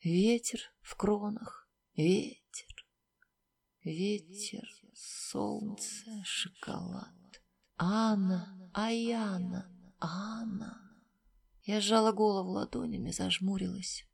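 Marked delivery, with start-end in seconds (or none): 2.0-10.8 fading, distant whispers trailing into near silence; whispering voices. A narrator's reading. Voices in her fading mind whisper to her, growing ever softer. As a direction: let the names dissolve into a breathy hush. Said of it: "и шепчутся".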